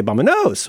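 "vámonos" mis-stressed on a later syllable; wrong-stress demo. Shown as a demonstration. Host showing what you don't say, "vámonos" with misplaced stress. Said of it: "You don't say".

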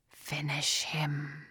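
low, slow whispered command; a creature hissing an order; evil creature ordering her to kill; demon voice. A narrator's reading. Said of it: "the Arius creature said".

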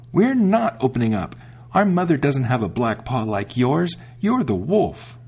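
put-on kids crying out. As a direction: refuse him like frightened little goats. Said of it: "they cried out".

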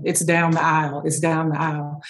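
low, offhand store worker brush-off; dismissive. Retold or imitated. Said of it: "I was being dismissive".

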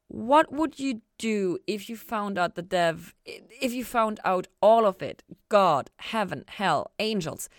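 Chloe voice. A narrator's reading.

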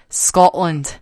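imitated Scottish ad sign-off; Scottish accent. Closing a Scotch commercial, in a Scottish accent. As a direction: say it like a Scottish voice-over. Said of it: "this lady with a Scottish accent".

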